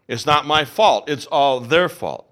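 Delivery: loud, slow, insistent denial; defensive protest. Acted. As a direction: push the blame off firmly. Excuse acted as a quote.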